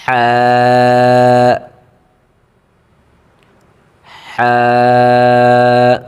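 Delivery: হ্যাঁ drawn from the throat, thin and long. Shown as a demonstration. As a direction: breathe হ্যাঁ thinly from the throat. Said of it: "কণ্ঠনালী থেকে আওয়াজ আসবে". (কণ্ঠনালী থেকে চিকন হা)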